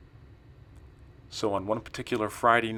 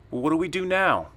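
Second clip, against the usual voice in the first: loud, high-pitched alarm; panicked urgency; 8 semitones higher, 6 dB louder than usual. Acted. Narrator to Daniel after fleeing to the trailer, panicked. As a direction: throw the question out in a panic.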